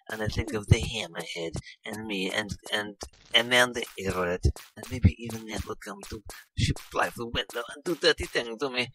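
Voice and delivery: hammed-up seductive British voice; sultry Lara Croft parody. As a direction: purr it like a vamping game heroine.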